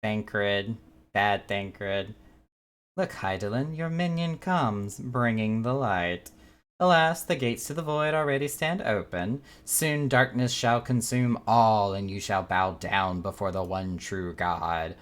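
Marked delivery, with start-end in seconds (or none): 3.0-14.9 slow, grandiose villain proclamation; dark lord. Acted. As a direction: intone it like a doom-bringing god. Reads villain's lines aloud slowly.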